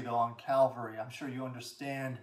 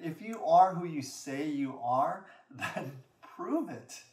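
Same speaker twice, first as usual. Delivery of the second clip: imitated taunt, loud then drawn out; scoffing retold dare; mocking challenge; 3 dB louder, slower than usual. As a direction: dare him with a laugh creeping in. Acting out the mocker's challenge.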